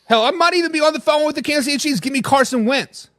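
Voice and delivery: Elmo-like voice. Real, not acted. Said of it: "Why you sounding like Elmo with the Southern drawl?".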